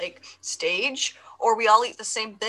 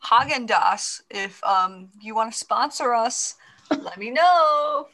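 mock plea. Mock-begging sponsor.

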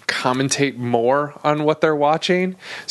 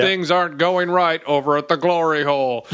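mock announcer. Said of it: "doing the same announcer".

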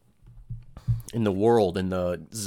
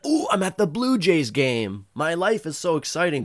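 mock influencer; 7 semitones higher, 3 dB louder than usual. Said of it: "everybody makes it look like their lives are so fucking exciting".

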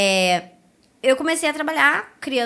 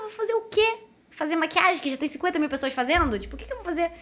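higher-pitched incredulous objection; mock-baffled comeback to a suggestion; retold protest; 5 semitones higher than usual. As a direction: push back with exasperated rhetorical questions. Acting out her protest to husband.

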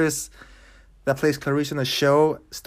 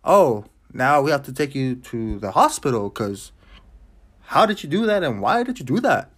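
mock emotionless line reading; lightly voiced parody of bad acting; Nicolas Cage with no emotion. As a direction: read it with zero feeling, like a wooden actor. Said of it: "Like, no emotion".

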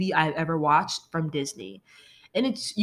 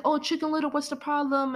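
higher-pitched mock townsman; imitating townsman; 7 semitones higher than usual. Townsman asking Chicken Little what's wrong, high imitation. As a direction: put on a lightly voiced townsperson's question.

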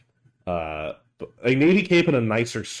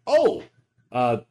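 much higher, louder friendly greeting; the speaker's voice; 5 semitones higher, 5 dB louder, slower than usual. Acted. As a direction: pitch up for the innkeeper. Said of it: "and she".

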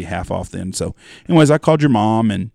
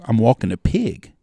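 Texas twang; slower than usual. Retold or imitated. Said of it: "this woman with all this twang".

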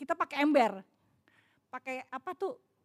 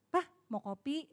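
affectionate offer; 4 dB quieter than usual. Shown as a demonstration. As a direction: coax a husband lovingly. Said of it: "kita sayangin". (menawarkan dengan sayang)

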